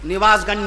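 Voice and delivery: निवाजगंज with ni, ni-waaz-ganj; mock the common निवाजगंज; the mistaken निवाजगंज, ni-waaz; wrong pronunciation. Shown as a demonstration. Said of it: "निवाज नहीं".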